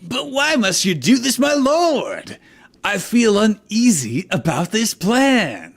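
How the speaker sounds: high, loud worried henchman; uneasy minion. Acted. Henchman doubting his lord's plan, high and anxious. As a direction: question your master nervously.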